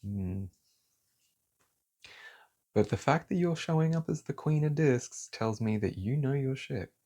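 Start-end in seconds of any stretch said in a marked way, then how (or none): 2.8-6.9 raised, heated voice, building on you know your shit; angry outburst. Real, not acted. Tarot reader fired up for the querent, angry. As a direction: let the anger spill out at the motherfuckers. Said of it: "I'm just so angry in this".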